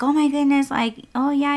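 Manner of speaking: high-pitched, sympathetic mimicry of the rider; imitated kindness. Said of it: "she was just very, very kind".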